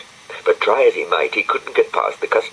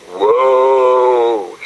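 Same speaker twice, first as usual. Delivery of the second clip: loud wailing woe; hammed-up lament of weeping trees; 6 semitones higher, 8 dB louder than usual. A narrator's reading. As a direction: moan it like grieving willows. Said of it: "said the trees".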